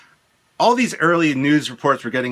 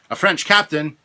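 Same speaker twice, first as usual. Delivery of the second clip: retold reaction; 4 semitones higher, 5 dB louder than usual. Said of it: "I remember thinking".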